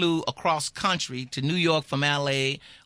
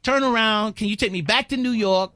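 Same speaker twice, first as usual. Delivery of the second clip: urgent plea; 5 semitones higher, 4 dB louder than usual. Retold or imitated. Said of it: "I went up to the pilot, and I said".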